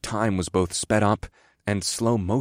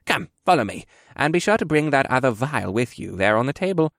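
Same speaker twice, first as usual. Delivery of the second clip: put-on higher-pitched old man character voice; old quartermaster giving orders; brisk old quartermaster; 4 semitones higher than usual. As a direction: beckon as a frail but brisk old mentor.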